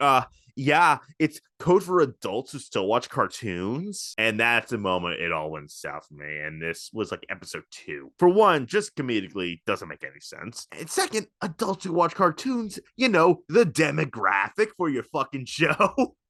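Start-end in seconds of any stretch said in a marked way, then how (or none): 0.0-4.1 mocking, dry, sarcastic delivery. Recounting a cartoon episode, quoting a character's reply, mock-sarcastic. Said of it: "And Velma goes sarcastically".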